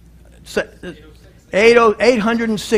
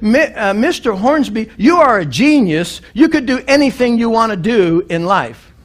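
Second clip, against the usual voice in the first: higher, louder, thrilled announcement; mock enthusiastic praise; 5 semitones higher, 4 dB louder than usual. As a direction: proclaim it like big news. HR boss praises Billy.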